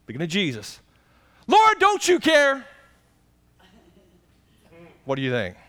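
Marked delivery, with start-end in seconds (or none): 1.5-2.6 high, loud and slow, a pleading cry to the Lord; Martha's complaint. Acted. Martha complaining to Jesus, high pleading voice. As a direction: plead like an overworked sister.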